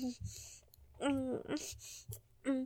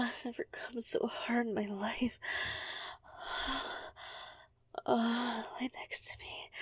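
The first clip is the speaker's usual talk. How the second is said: whispering; 3 dB quieter than usual. Acted. Breathless afterglow whisper.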